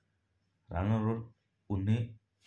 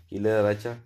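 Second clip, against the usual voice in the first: guard's sharp question; 2 semitones higher, 7 dB louder, faster than usual. Acted. Guard questions a load-bearer.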